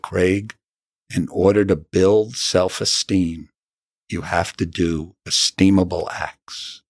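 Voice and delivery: slow and gentle, a touch of fatherly tenderness; loving, kind voice. Retold or imitated. Doctor gently telling Craig how to build self-esteem, slow and kind. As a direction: ease it out kindly, like a doctor who cares. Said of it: "in the most loving, kind voice".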